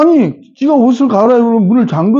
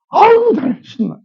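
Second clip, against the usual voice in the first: mock gleeful; 11 semitones higher than usual. Imagining dancing at daughter's wedding.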